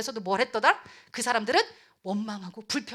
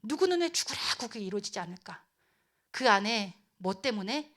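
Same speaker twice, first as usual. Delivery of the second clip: ordinary talk, nothing marked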